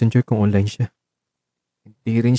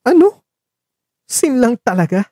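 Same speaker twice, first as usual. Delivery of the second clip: much higher, giving up with a laugh; exasperated laugh; 11 semitones higher than usual. Acted. Marco seeing Luke ignore him again, exasperated laugh. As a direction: throw your hands up and laugh it off.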